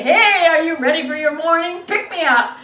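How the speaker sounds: exuberant greeting. Acted. Grandmother jiggles over with morning drinks, loudly exuberant. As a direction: sing out a brazen morning hello.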